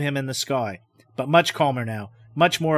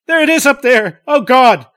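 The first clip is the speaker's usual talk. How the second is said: shrieking high and loud; screaming in horror at what he sees; 10 semitones higher, 12 dB louder than usual. Acted. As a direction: break into a terrified scream. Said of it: "He breaks into a scream".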